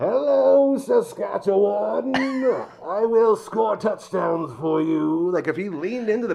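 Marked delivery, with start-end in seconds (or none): 0.0-5.3 loud, very slow, booming masked-villain voice. Imagining a player running out in a Bane mask, doing a Bane voice. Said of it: "imagine having like a Bane mask on".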